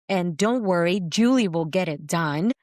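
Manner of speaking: reassuring self-talk. Retold or imitated. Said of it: "this is what I was saying to myself".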